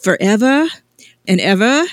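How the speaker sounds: put-on sing-song British ghost-girl invitation. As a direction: coax in a British accent, pausing between phrases. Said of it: "you become English after you die".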